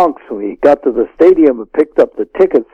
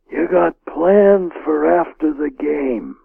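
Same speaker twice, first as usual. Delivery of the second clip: slow, softer, higher gangster rasp; hoarse whisper; 4 semitones higher, 6 dB quieter, slower than usual. Retold or imitated. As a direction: lean in with a quiet, knowing mob hoarseness. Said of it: "sort of a hoarse whisper".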